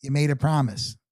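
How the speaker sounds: lightly imitated nasal voice; a hint of the buddy's nasally tone. Buddy checking on the promise, lightly nasally voice. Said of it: "he's got a little nasally voice".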